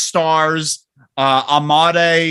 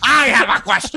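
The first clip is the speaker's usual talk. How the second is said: raised, put-on voice; mock yell; 6 semitones higher than usual. Mock yelling a question at the cohost. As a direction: bellow the question at your cohost. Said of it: "why are you yelling at me".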